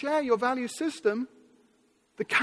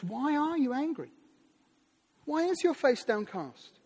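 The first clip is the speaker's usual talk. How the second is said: tender questioning; 2 semitones higher than usual. Retold or imitated. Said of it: "God comes to Cain tenderly".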